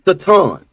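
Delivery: Satan with an open "ah" in the last syllable; Satan, drawn out to end in "tahn"; Hebrew-style pronunciation. Shown as a demonstration. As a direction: say Satan ending in a long stressed "TAHN". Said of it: "It's pronounced".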